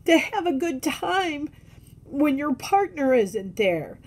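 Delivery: speaking through welling tears about missing him; tearing up. Real, not acted. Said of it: "Oh, I'm tearing up again".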